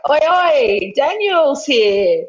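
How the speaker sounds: cheery hello. Retold or imitated. Announcing himself to friends, cheery greeting. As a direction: greet the room like a mate arriving. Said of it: "like a hello".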